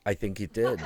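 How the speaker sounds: said through a real laugh. Real, not acted. Answering a friend's pigeon joke, laughing. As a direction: laugh the words out.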